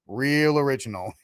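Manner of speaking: lightly mimicked bad movie accent; Kevin Costner. Host quoting a film line as a joke, mock bad accent. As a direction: do a mock full Mayor Quimby accent. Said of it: "he has the worst accent".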